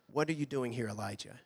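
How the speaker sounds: soft, hushed question fading away; gentle whisper voice. Acted. Preacher softly voicing God in the cave. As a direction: ask gently, as if very close. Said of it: "came a gentle whisper".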